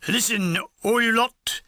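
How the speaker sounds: lightly voiced Cockney sergeant; Cockney sergeant calling for attention; clipped nasal Cockney. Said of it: "talking in his clipped nasal Cockney voice".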